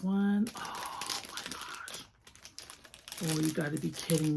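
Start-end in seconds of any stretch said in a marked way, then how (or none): 0.6-2.0 very slow, breathless whisper; awed whisper. Real, not acted. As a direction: let it slip out in awe. Stunned by new figure.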